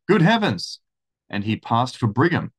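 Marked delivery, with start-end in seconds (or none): 0.1-0.8 much higher, louder cry of shock; astonished exclamation. A narrator's reading. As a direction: gasp it out, caught completely off guard. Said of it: "very much astonished".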